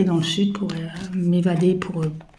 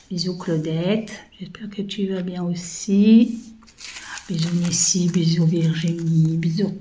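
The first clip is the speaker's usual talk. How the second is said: whispered kisses. Real, not acted. Sending kisses to viewer friends.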